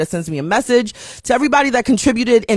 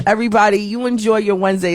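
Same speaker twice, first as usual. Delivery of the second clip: ordinary delivery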